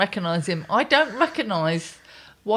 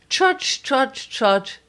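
imitating a serene presenter; 2 semitones higher, much slower than usual.

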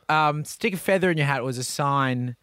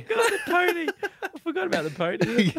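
put-on Italian accent; 11 semitones higher, 3 dB quieter than usual. Italian bit continued.

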